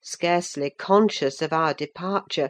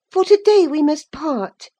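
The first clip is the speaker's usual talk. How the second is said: put-on higher, brighter girl's voice, eager; young Cathy, lively; 10 semitones higher, 7 dB louder than usual. A narrator's reading. Cathy talking to Ellen about Linton, lively young voice. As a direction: play the young lady, quick and sure.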